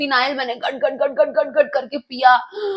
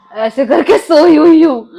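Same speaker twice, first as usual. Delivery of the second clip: laughing through the words, much louder; 2 semitones higher, 9 dB louder than usual. Real, not acted. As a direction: break into a laugh mid-sentence. Laughing while telling. (हँसते-हँसते बोलना)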